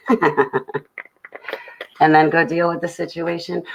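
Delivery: slow words through a real laugh; nervous laughing aside. Real, not acted. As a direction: chuckle as you say it. Pink elephant in the room.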